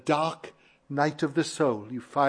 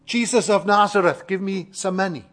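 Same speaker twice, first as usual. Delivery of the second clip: higher-pitched imitation of a beggar's call; mock crying out; 4 semitones higher, 4 dB louder than usual. Preacher imagines beggar asking Jesus for money, crying out. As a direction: call out as a beggar after coins would. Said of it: "he doesn't cry out".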